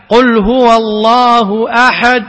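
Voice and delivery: أحد ending with lips rounded, no sound; slow recited "قل هو الله أحد" with silent lip rounding on أحد; ishmam demonstration. Shown as a demonstration. Teacher showing students ishmam on أحد. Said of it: "هذا يسمى الإشمام".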